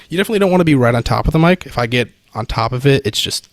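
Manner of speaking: boomy, right on top of the mic; too close to mic. Shown as a demonstration. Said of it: "it's just gonna get kinda super".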